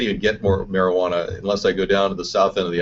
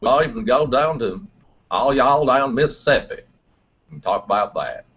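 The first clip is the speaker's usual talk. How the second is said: Mississippi drawl. Acted. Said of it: "I can drift from a Texas accent".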